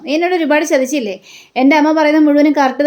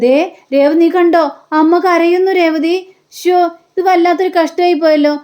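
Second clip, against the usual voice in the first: higher-pitched, acted astonished fuss; mock dismay; 4 semitones higher than usual. Son tells Revathi that mother is crying, mock dismay. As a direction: make a mild show of alarm.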